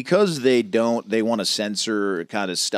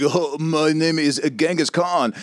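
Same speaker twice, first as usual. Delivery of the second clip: mock Asian accent; 4 semitones higher, slower than usual. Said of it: "I did, like, an Asian accent".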